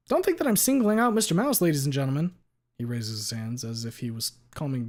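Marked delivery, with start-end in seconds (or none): 0.1-2.4 higher, louder lawyer question. Acted. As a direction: ask it like a sharp attorney. Lawyer addresses jury.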